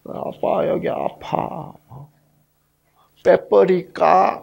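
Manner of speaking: drawn-out little complaint, lightly acted; imitated hurting child. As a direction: play a daughter timidly telling dad it hurts. Hurting daughter asks her father.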